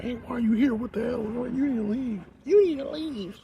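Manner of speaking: high, loud shout to get out; angry yelling. Retold or imitated. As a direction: yell at an intruder to leave. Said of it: "without somebody being like".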